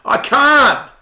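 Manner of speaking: loud, high strained cry; exhausted cry. Retold or imitated. Lifter at his limit crying out, strained loud. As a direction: cry out like you're spent. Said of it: "where you go".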